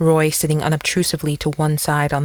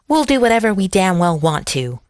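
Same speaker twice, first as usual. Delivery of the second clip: higher-pitched defiant burst, falling away; shrill outburst; 4 semitones higher than usual. A narrator's reading. Raymond bursts out at the sheriff, shrilly. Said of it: "Raymond burst out, shrilly".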